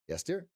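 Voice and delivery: high "Yes, dear" rising at the end; questioning inflection. Shown as a demonstration. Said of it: "You could ask it as a question".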